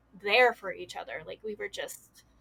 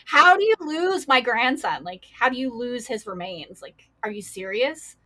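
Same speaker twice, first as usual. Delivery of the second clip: a mother's outrage, louder on the middle line; demanding answers from the funeral home; retold angry mom; 5 dB louder than usual. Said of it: "rained holy hell on them".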